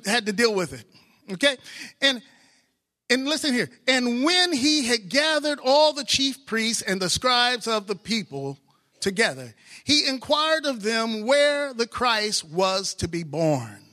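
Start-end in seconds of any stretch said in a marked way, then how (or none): 3.9-13.9 slow, solemn reading of verses; scripture reading. Acted. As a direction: read the passage with weight.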